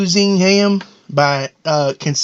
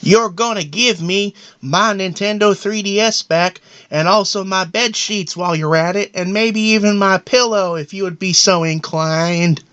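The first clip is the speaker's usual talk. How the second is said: whiny son; 3 semitones higher than usual. Retold or imitated. Son threatens dad with rifle.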